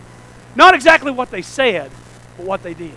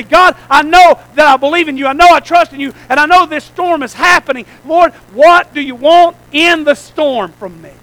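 raised, fervent prayer, slowing at the end; earnest prayer; 4 dB louder than usual. Retold or imitated. Believer praying in the storm, raised and fervent. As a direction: pour your heart out to the Lord. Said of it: "find him and say".

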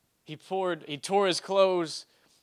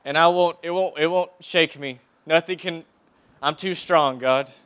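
boastful prayer; 4 dB louder than usual. Retold or imitated. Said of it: "I used to pray, I said".

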